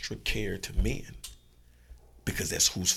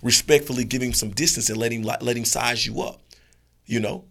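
calm advising dog; 3 semitones higher, 6 dB louder than usual. Acted. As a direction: coach him gently. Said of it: "he would be like".

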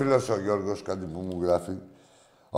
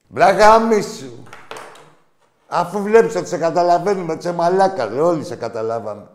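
loud, high-pitched cursing; real furious shout at a caller; angry outburst; 6 semitones higher, 7 dB louder than usual. Real, not acted. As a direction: blast the prank caller, voice raised. Host curses out a prank caller.

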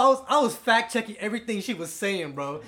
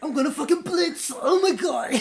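mock British; 8 semitones higher, 4 dB louder than usual. British parody.

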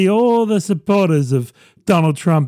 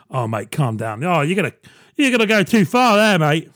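mock dealer. Drug dealer warning a customer.

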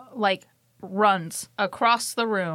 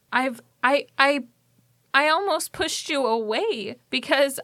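mildly tearful, higher-pitched confession; upset, halting apology with raised pitch; 4 semitones higher than usual. Acted. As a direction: apologise through held-back tears, haltingly. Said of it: "and she starts crying".

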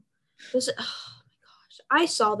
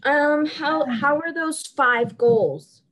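sarcastic taunt; 3 semitones higher, 4 dB louder than usual. Acted. Mocking rival team.

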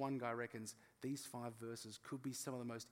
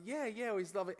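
casually clueless reply; 7 semitones higher, 5 dB louder than usual. Retold or imitated.

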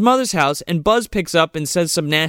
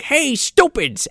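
high, drawn-out call to get attention; slow, high singsong heckle; mock taunt; 10 semitones higher, slower than usual. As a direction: imitate a kid taunting from across the room. Kevin taunting the burglars from chair.

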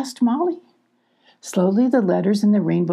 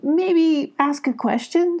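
suggesting; 9 semitones higher, slower than usual. Acted. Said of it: "suggested Abby".

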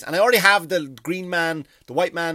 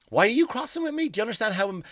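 much higher, incredulous protest; exasperated; 8 semitones higher, faster than usual. Retold or imitated. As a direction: squeak out the outrage in disbelief. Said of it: "And I go".

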